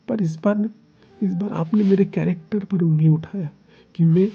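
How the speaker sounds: hurt angry outburst. Acted. Hurt partner accuses, demands divorce.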